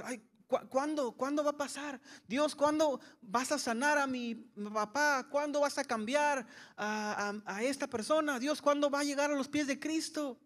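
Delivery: fretting at God, hands wringing; anxious pleading. Retold or imitated.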